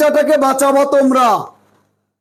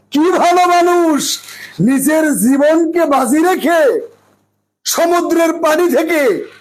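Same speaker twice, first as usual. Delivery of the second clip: admiring praise. Retold or imitated. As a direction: marvel aloud like an impressed onlooker. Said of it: "সবাই প্রশংসা করছে".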